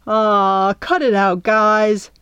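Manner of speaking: mildly exasperated groaning protest; drawn-out, bothered "aw, come on" tone; exasperated plea. A narrator's reading. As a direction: plead with crying friends to stop. Pudge scolds the crying girls.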